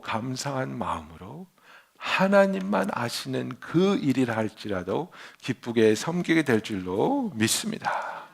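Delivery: slow down and assure the congregation gently; slow sermon close. Real, not acted. Closing prayerful exhortation.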